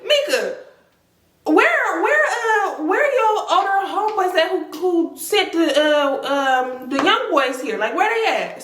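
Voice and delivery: high, urgent mock panic; frantic asking. Asking her cousin where the boys are, high urgent panic. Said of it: "I'm like".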